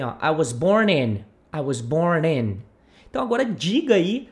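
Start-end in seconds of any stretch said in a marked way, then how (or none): 0.2-2.6 "I was born in." run together, low; linked words. Shown as a demonstration. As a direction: join "was born in" with no gaps. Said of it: "Veja como a gente junta aqui". ("I was born in." ligado)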